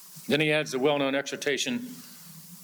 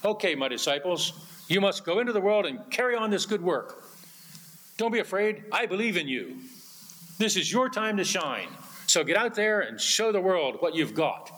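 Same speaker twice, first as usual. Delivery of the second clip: mock pep talk; 4 semitones higher than usual. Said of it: "Did he say".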